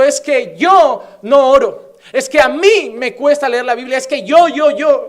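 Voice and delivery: mocking whiny excuses. Mocking excuses of church members.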